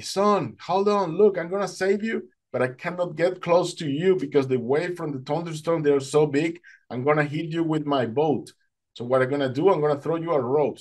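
high-pitched urgent calling; retold screaming. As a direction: call instructions across rough water, acted out. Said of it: "this guy started screaming at me".

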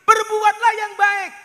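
sermon voice, slow and loud; slow sermon delivery. Acted. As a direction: preach it over the music, drawn out. Preaching climax over music.

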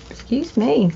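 hiccuping mid-phrase; hiccups. Real, not acted. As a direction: talk through hiccups. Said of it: "I got the hiccups".

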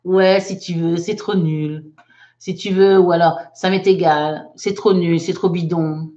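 put-on mild teenage scorn; dismissive kid. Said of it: "Là, il y a du slang".

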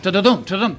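drum-roll "ta-da-dum" of a chase; sung-out chase noise. Retold or imitated. Joke teller setting off the lion's chase, rhythmic imitated noise. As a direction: imitate galloping pursuit in syllables.

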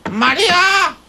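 drawn-out call from inside the coffin. Acted. Dead man calls to his wife from the coffin, calling out. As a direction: call the name out, stretched and rising.

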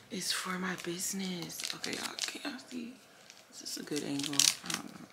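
unvoiced whisper, quick and soft. Real, not acted. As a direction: hush it like a secret reveal. Whispering while filming unboxing.

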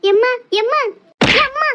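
high, rising calls to mother; crying out in alarm. Acted. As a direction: call out urgently, each word rising. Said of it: "எதுக்கு இப்படி கத்துன?".

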